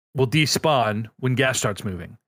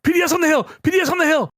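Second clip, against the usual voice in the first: shouting a callout to teammates; 14 semitones higher, much faster than usual. Retold or imitated. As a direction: call it out to the squad. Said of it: "I'm like".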